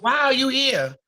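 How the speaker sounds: breathless whispered question. Real, not acted. Host reacting to the eulogy in a shocked whisper. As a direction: whisper it in disbelief.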